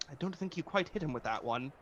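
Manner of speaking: slightly robotic but still human; lightly mechanical companion voice. Acted. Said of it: "a slightly robotic, but still, like, sounding human".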